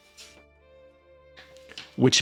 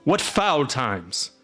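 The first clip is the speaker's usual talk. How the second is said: slow, drawn-out lament over the times; exasperated exclamation; 2 semitones higher, much slower than usual. Acted. Castellan laments the foul times, slow and drawn out. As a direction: bemoan it aloud, slow. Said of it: "castellan exclaims".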